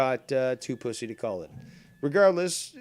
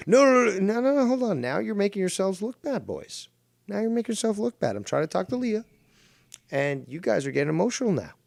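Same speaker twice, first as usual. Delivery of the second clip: mock calming the call; 7 semitones higher than usual. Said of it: "acting out calming a heated call".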